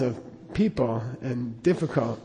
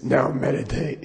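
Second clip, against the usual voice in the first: slow, lightly voiced lama order; a hint of a crushed voice box; Darth Vader. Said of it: "he talked like Darth Vader".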